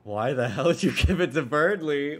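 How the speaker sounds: loud, rough, annoyed demand; angry tomboy voice. Acted. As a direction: snap it out like a tough bully. Reads two characters' versions of line.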